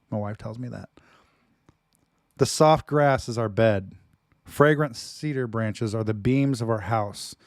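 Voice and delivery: dramatic reading. Acted. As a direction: declaim it like a lover's poem. Reads love poem dramatically.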